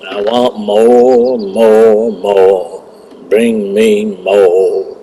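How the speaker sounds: slow, drawn-out greedy voice; greedy demand. Pretend. Greedy hunter playing along.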